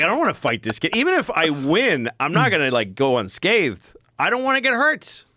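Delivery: mock panic of a scared teenager; imitating his own fearful thoughts. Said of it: "I was terrified".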